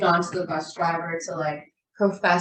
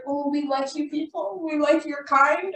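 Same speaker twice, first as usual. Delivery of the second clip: imitated consoling friend; 7 semitones higher than usual. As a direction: draw it out as a well-meaning friend. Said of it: "my friend came up to me. She's like".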